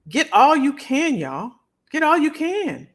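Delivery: high, loud rallying call; hype call. Real, not acted. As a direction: fire up the crowd. Pumping up the live audience.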